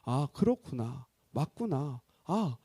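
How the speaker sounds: low, slow murmur of agreement; empathetic realization. Acted. Listener agreeing with someone they are hearing, empathetic murmur. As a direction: take it in gently, pitched low. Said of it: "공감을 해요".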